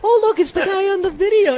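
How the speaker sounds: high, gleeful mock child voice; excited kid. Kid voiced spotting the host in public. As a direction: point and squeal like a kid. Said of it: "you know, like".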